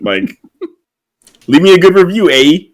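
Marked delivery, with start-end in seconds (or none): 1.5-2.6 put-on Canadian accent. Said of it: "full-on, like, T V Canadian stereotypical accent".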